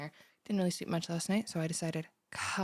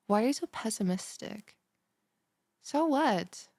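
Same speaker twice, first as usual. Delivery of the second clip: indignant snap; 3 semitones higher, 4 dB louder than usual. Acted. Snaps at pessimistic stranger.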